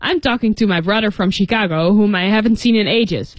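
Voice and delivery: quick, continuous brush-off leaving no gap; without waiting. Shown as a demonstration. Pharmacist not waiting for the girl's reply, rattled off. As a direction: run it together in one breath. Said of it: "so he just continued".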